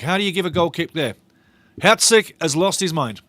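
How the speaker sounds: loud, incredulous protest; indignant disbelief. Real, not acted. Fan protesting the referee's goal kick call, indignant. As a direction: call it out, appalled at the decision.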